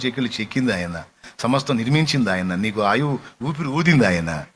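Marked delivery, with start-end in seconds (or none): none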